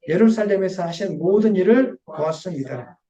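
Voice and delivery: slow, measured Bible reading; scripture reading. Acted. Pastor reading scripture to the church, slow and measured. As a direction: read the verse slowly to the congregation.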